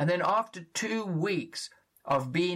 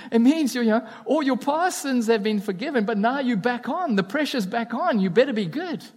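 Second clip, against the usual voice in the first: loud, high, driving preacher voice; full-force preaching; 7 semitones higher, 7 dB louder than usual. Acted. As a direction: hammer the warning home to the congregation.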